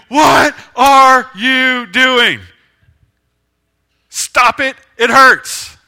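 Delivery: loud, high, drawn-out pained scream; screaming plant. Acted. Plant screaming at the pruner with the saw, loud and pained. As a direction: scream it slowly, high and hurting. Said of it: "that plant is just screaming".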